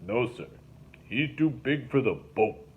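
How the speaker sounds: slow, patient boatman voice; lightly voiced swamp boatman, explaining; slow, deliberate explanation; Link explaining. A narrator's reading. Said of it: "Link explained".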